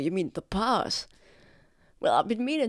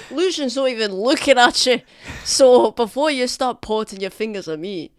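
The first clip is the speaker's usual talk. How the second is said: angry; 5 semitones higher, 11 dB louder than usual. Acted. Heated rebuke in a quarrel.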